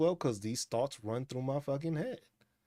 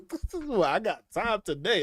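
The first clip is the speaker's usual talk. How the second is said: voicing the cat; 7 semitones higher, 5 dB louder than usual. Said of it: "the cat's attitude".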